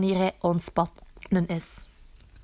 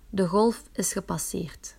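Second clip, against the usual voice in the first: whispering. Acted. Wave passed, whispered.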